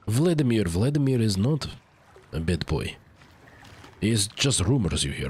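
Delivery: cartoony Russian accent. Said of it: "You also do a fine Russian accent".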